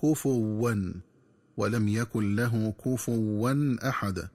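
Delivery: كفوا with a doubled waw, "kufuwwan"; wrong reading. Shown as a demonstration. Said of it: "من الخطأ كذلك قراءتها بتشديد الواو". (قراءة خاطئة بتشديد الواو)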